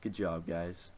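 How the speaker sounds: slow, lightly voiced proud dad; a hint of a beaming sitcom father, drawn out; proud eighties parent. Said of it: "where the parents are, being like".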